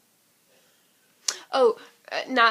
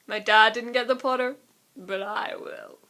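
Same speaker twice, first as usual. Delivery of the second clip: lightly voiced smug boy, slowing at the end; Scorpius voice; 6 dB louder than usual. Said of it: "imagine Scorpius just be like".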